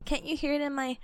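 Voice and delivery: stuffy, nasal, under the weather; nasal sick voice. Real, not acted. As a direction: talk through a blocked nose. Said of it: "my little nasally voice".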